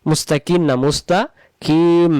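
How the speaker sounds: মুস্তাকিম ending on a closed-lip ম, not ন; correct the ending. Shown as a demonstration. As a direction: close both lips on মুস্তাকিম. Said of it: "দুই ঠোঁট লাগবে". (দুই ঠোঁট মিলিয়ে উচ্চারণ)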